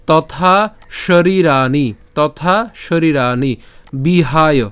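measured shloka words with held long vowels; teacher's stately Sanskrit recitation; Sanskrit verse recitation. Shown as a demonstration. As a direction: model the verse deliberately, word by word. Teacher models next verse words.

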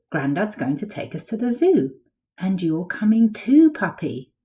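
lively picture-book read-aloud; storybook voice for kids; reading to children. A narrator's reading. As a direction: tell it like a bedtime story to little ones.

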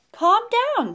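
high, loud storybook reassurance; dismissing the alarm. A narrator's reading. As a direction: brush off his panic in a high voice. Reassures alarmed Mister Lion.

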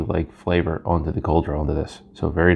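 lips closed around cigar; speaking between puffs; cigar in mouth. Real, not acted. Seen 0: Unlit cigar held at lips from 1.8 to 4.2 during speech.

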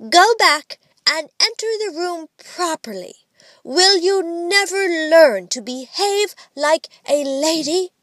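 high, reproving mock-grown-up; grave mother imitation. A narrator's reading. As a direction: scold gravely like a strict mother. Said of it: "said gravely".

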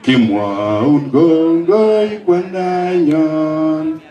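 slow, weighty quoting of the words; solemn quoted message. Retold or imitated. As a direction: read the message very slowly and solemnly. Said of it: "Ko kitien tienindet kole".

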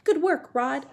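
high, loud praise; crying out. A narrator's reading. Captain praising Rod from the air, crying out. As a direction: call out approval brightly from overhead. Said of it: "cried Cracker".

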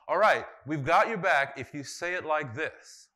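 mock condescending ally. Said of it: "They didn't say to him".

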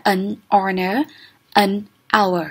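"An honor, an hour" with both H's silent; "honor" and "hour" without any h sound. Shown as a demonstration. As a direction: link "An" straight into the vowels of "honor" and "hour". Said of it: "chữ H này là âm câm".

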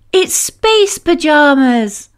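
high, bright burst of joy; thrilled at the gift; excited child. Acted.

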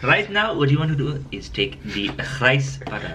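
a light mock Indian accent as a TV chef. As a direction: play a pompous chef with a hint of Indian accent. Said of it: "You did an Indian accent".

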